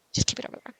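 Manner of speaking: whispering the repeat to the mouse; whispered aside to the cursor. Pretend. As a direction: breathe the same words again, unvoiced.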